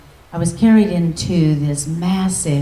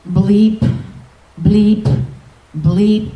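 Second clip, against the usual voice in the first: loud, higher mock electronic bleep; imitated bleeps; 3 semitones higher, 4 dB louder, much slower than usual. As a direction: imitate a blinking light's bleep. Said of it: "going something like this".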